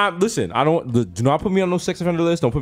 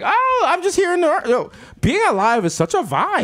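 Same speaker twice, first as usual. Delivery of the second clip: put-on newborn baby voice; 11 semitones higher than usual.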